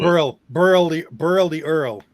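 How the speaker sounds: Burl and Earl drawn out and loud, imitating old New York; New York "er" vowel. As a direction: lean hard on Burl the Earl. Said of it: "Archie Bunker used to say".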